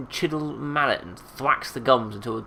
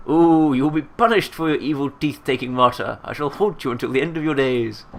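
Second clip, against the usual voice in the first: loud, wailing voice of the dead; ghostly threat; 4 semitones higher, 7 dB louder than usual. Acted. Corpse threatening to haunt Marta, ghostly wail. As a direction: moan out a curse like a ghost.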